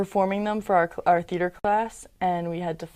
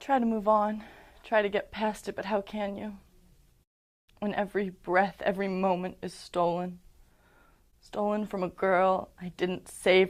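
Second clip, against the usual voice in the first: guilt-ridden confession building in force, then falling away; anguished, deliberate stage delivery with heavy pauses; dramatic monologue. Acted. Survivor confessing she didn't save the girl, guilt-ridden dramatic monologue.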